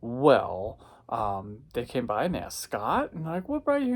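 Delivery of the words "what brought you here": mock staff question. Staff asking moviegoers.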